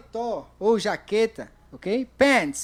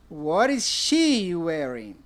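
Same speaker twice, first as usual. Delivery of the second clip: slow model question; 3 semitones lower, much slower than usual. Shown as a demonstration. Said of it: "A terceira pergunta".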